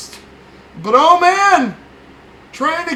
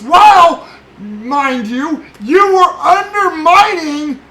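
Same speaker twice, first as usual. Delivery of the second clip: shouting; 2 semitones higher, 4 dB louder, slower than usual. Real, not acted. Angry rant at Fauci.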